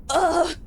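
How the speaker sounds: high-pitched mock "ugh"; short comic groan of dismay; disgusted groan. Acted reaction to being thought young.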